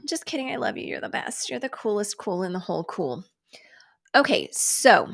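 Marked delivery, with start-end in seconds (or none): 0.1-3.2 soft, breathy-free hushed flattery; hushed teasing make-up to Zuck; mock sweet-talk. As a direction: coo it softly as a joke apology. Sweet-talking Zuck after insult.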